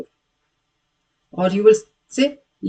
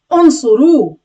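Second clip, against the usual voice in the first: loud command; 3 semitones higher, 6 dB louder than usual. Shown as a demonstration. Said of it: "you're going to command".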